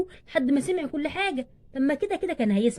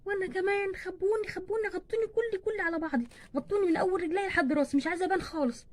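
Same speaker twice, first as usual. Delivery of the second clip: higher, softer fearful plea; scared child; 4 semitones higher, 6 dB quieter than usual. Acted. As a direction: beg to be covered head to toe. Second child also wants hiding. (خوف ورجاء بصوت واطي)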